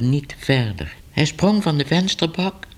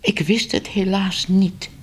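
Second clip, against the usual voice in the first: higher, mildly flustered denial; nervous; 7 semitones higher than usual. A narrator's reading. Editor excusing himself to an angry townsman, nervous. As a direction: plead ignorance, a touch nervously. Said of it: "die zenuwachtig op zijn nagels".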